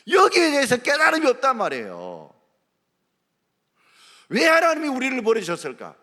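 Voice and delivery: loud, high preaching; full-force pulpit delivery; fiery preaching. Acted. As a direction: drive the point home to the congregation.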